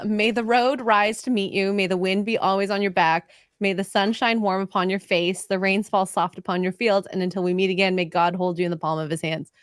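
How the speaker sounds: measured blessing, pitch gently falling; reading a blessing. Real, not acted. Reading the Irish blessing off a glass, measured recital. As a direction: recite it evenly, line by line.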